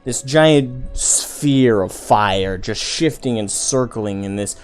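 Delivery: game master's scene setting. Acted. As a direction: paint the blast vividly for the players.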